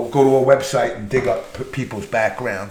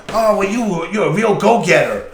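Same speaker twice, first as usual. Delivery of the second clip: higher, louder, flattering boss voice; butter him up like a nervous boss; fawning boss; 6 semitones higher, 4 dB louder than usual. Retold or imitated. Boss voiced in retold story.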